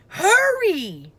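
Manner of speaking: high, loud urgent shout. A narrator's reading. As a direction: yell at him to hurry. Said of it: "Annie shouted".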